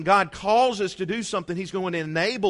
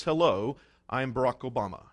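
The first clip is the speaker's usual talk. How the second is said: low, measured presidential voice; deep slow Obama impression; 6 semitones lower, 4 dB quieter than usual. Preacher mimicking the President introducing himself, deep and slow. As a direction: drop the pitch and drawl it like Obama. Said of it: "has to talk like that".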